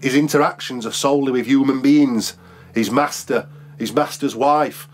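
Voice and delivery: steady, measured reading of a travel memoir; read-aloud narration. Acted. Author reads his book excerpt to podcast co-hosts, measured narration. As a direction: read the passage out like an audiobook.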